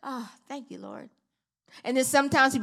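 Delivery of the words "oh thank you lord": much softer, breathy thanks to the Lord; hushed thankful prayer. Retold or imitated. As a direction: murmur it as if God just touched you. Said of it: "and I'll be like".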